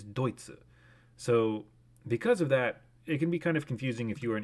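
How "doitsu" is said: Deutsche as "DOY-tsu"; Japanese pronunciation. Shown as a demonstration. Streamer giving Japanese word for Germany, Deutsche as "doy-tsu". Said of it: "Germany is Deutsche".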